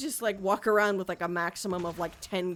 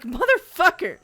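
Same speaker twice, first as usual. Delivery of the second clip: louder, higher, through laughter; laughing swear; 9 semitones higher, 11 dB louder than usual. Retold or imitated. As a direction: wail the swear while laughing. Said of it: "I was like".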